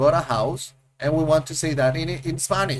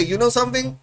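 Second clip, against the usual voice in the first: mock excuse; 7 semitones higher than usual. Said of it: "and I say".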